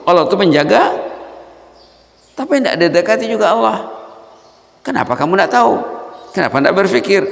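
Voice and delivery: high, loud rebuking questions; impassioned preaching. Acted. Preacher rebuking the congregation, loud and high. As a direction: scold the congregation from the pulpit. Preacher scolding forgetful listeners.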